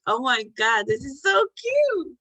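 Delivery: high, slow gushing squeal; mock swoon at a cute video; gushing over cute. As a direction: coo over something adorable.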